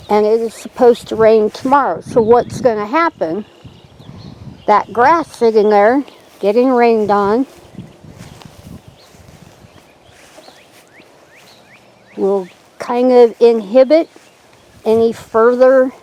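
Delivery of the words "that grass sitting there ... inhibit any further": slightly winded, catching breath. Real, not acted. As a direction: talk while a little out of breath. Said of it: "Sorry, I'm a little out of breath".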